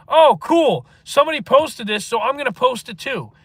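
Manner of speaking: loud, high mocking sheep voice; mocking trend followers. Streamer mocks TikTok trend followers, loud high mock voice. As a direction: sneer it out like a brainless copycat. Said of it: "they were like".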